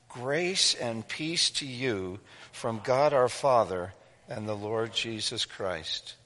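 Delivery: soft, measured scripture reading; best reading voice. Real, not acted. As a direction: read it aloud softly for a group to follow, slowing towards the close. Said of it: "got your best reading voice".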